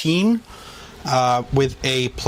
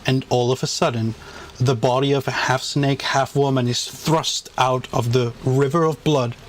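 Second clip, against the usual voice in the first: game master narration. A narrator's reading. GM narrates the kill dramatically.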